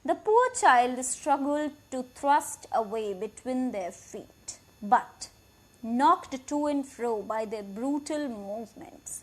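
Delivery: slow, deliberate reading of the English text; slow story reading. A narrator's reading. Teacher reading the English passage aloud, slow and clear. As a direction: read each word out clearly for the class.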